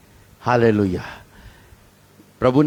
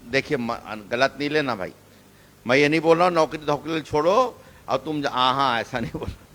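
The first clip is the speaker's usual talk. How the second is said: quick soft aside; 4 semitones lower, 6 dB quieter, faster than usual. Real, not acted. Aside clarifying, not misunderstand.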